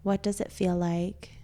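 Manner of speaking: soft, calm meditation voice with long pauses; guided meditation. Acted. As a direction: gently guide them into stillness, leaving space to breathe.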